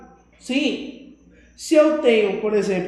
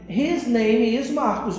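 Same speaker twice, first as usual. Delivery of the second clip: slow model answer; slower than usual. Shown as a demonstration. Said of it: "vocês responderiam pra mim".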